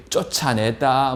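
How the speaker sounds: ordinary talk, nothing marked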